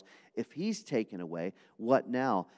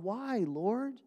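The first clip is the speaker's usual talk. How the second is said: much higher and louder, desperate parents crying to God; anguished plea; 10 semitones higher, 6 dB louder than usual. Acted. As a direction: plead to God over a sick baby. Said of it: "looking at little Josiah going".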